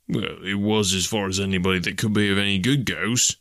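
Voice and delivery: lightly voiced working man, hedging; constable's broad, colloquial lilt; rustic police constable. Constable answers whether the street was empty, rustic hedging.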